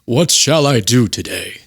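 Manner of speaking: slow, stately deity voice; grand, drawn-out mock deity; God impression. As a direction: intone it slowly as the Almighty. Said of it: "That's God".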